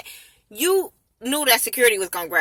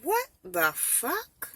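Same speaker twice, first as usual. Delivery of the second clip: slow stunned disbelief; 4 semitones higher, 8 dB quieter, much slower than usual. Retold or imitated. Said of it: "I said".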